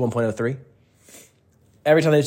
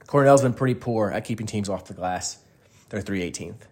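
stuffy nose, sniffling between words; 3 semitones lower than usual. Real, not acted. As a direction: talk through a runny nose. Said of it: "Excuse the sniffling".

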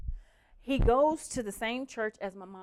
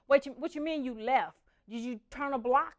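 incredulous; 4 semitones higher, 5 dB louder than usual. Retold or imitated. Incredulous retold quarrel with Tori.

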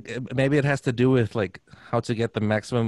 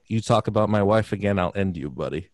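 menacing threat; 2 semitones lower than usual. Retold or imitated. Therapist threatens, throat grabbed.

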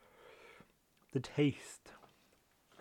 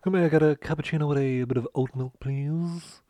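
fancy; 3 semitones higher than usual. Retold or imitated. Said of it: "it makes me sound very fancy".

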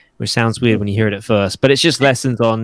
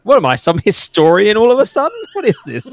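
higher, laughing retort; mock exasperation; 10 semitones higher, 3 dB louder than usual. Answering clients who ask about The Crown, laughing and high. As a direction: play being fed up with history questions. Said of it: "And I'm like".

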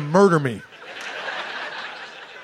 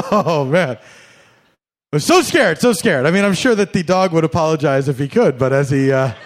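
sarcastic mock fright; 3 semitones higher, 5 dB louder than usual. Hammed-up scared sarcasm to owner.

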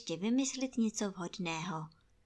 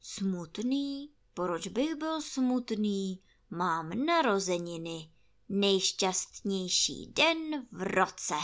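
gloomy donkey; slower than usual. Acted. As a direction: drag it out like a glum old donkey. Ijáček, tief und langsam.

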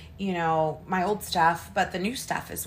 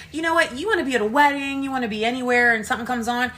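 excited pep talk; 5 semitones higher, much faster than usual. Retold or imitated. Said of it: "I said".

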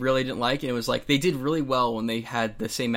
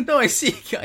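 high, loud laughing objection; laughing protest; 12 semitones higher, 6 dB louder than usual. Real, not acted. Friend teased about jumping at movies, laughing protest. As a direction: burst out laughing, then protest through it.

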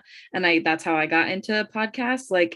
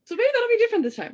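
said through a laugh; wry laugh on the words; faster than usual. Real, not acted.

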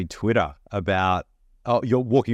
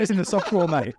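teasing; 6 semitones higher than usual. Real, not acted. Teasing repeat of the find.

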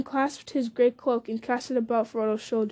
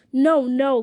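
crying out; 2 semitones higher, 6 dB louder than usual. Acted. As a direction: cry it out in alarm. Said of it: "cried Frodo".

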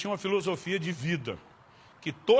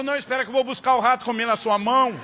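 sarcastic retort; 4 semitones higher, 5 dB louder than usual. Acted. Lunga punchline.

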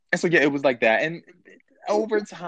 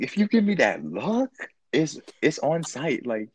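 put-on giddy lovestruck teen; 5 semitones higher, 3 dB louder than usual. Younger self, high and loud.

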